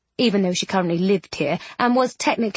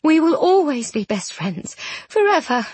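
higher, earnest emotional vow; heartfelt promise; 6 semitones higher than usual. A narrator's reading. Miss Eyre vowing friendship to ghost, heartfelt. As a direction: promise it fervently, pitch lifted.

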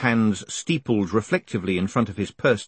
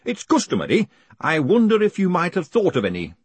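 higher-pitched hangman voice; prompting hangman; 8 semitones higher, 4 dB louder than usual. Acted. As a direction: politely nudge the prisoner for an answer. Hangman prompts condemned man.

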